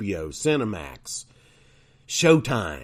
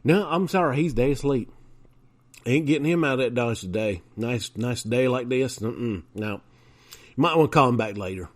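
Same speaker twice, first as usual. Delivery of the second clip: hick voice; 3 semitones higher than usual. Pretend. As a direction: play a clueless country hick on the phone. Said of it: "walk back over to the phone".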